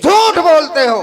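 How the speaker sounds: loud, high, angry shout; angry accusation. Acted. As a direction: snap at him for lying. Guru doubts the disciple's claim. (गुस्से में ऊँची डाँट)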